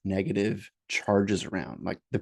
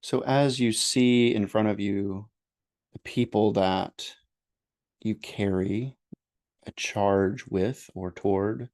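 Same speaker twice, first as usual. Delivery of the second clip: unhurried meditation guidance with long pauses; guided meditation. Real, not acted. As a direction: gently lead listeners through breathing and noticing.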